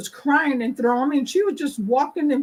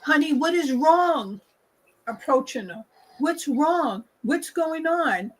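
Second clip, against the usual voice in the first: concerned helper voice; 3 semitones higher than usual. Retold or imitated. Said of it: "the Caucasian people".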